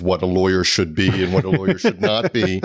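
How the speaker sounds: lightly put-on stiff lawyer voice. Real, not acted. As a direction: recite it like a stilted bar official. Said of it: "I love how your voice changes".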